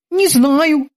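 high, eager sailor's voice; squeaky dutiful boatswain. Acted. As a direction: report to the captain like a keen young sailor. Boatswain Kiki answers.

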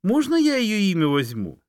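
high, eager little fox; a sly fox asking sweetly. A narrator's reading. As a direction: fox asks the bear for a name, high and eager. Fox asks bear in story.

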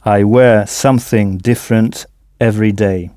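different stressed on its first syllable. Shown as a demonstration. Teacher models the answer to the learner, different stressed on the first syllable. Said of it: "En insistant bien sur la première syllabe".

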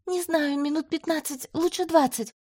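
high, tense reply; anxious answer. A narrator's reading. Healer tells the commander how long she needs, high and anxious. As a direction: answer nervously.

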